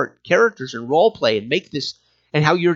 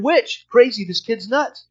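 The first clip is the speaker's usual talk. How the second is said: mob yelling; 6 semitones higher, slower than usual. Retold or imitated. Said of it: "Now you've got people screaming".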